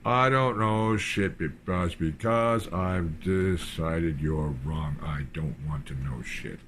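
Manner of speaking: slow, stretched sneering imitation; drawn-out mock. Mocking the woman's stubborn reply, slow and sneering. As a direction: drag it out to ridicule her.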